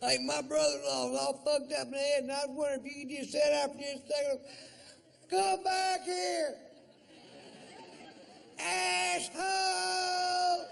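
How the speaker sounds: very high, loud shrieking fan, rushing then dragging out the yell; mock fan chasing him, ending in a screeched insult; hammed-up shrill stranger yelling after him; pushy fan.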